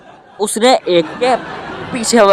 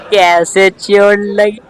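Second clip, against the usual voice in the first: prying uncle question; much slower than usual. Acted. Uncle asks the boy again how he got hurt, slow and nosy.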